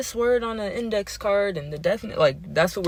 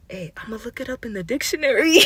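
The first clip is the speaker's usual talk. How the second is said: higher voice breaking into laughter; cracking up; 4 semitones higher than usual. Retold or imitated. Boy's dictionary joke retold, cracking up laughing. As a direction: quote the kid while losing it laughing.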